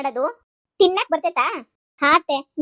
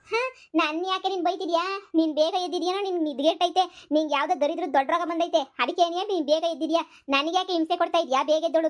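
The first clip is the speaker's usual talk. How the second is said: defiant daughter-in-law; 2 semitones higher than usual. Acted. Second figure answers back.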